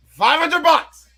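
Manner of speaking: high, slow, drawn-out gloat; gloating over the winnings, high and slow; smug demand. Retold or imitated. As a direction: stretch it out, smug and triumphant. Jumper demanding his bet money.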